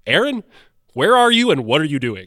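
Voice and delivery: big, booming announcer voice; loud announcer call, swooping up on the name; Ken Double. Retold or imitated. Friend phoning at night to summon him, announcer voice. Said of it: "he has this great announcer voice".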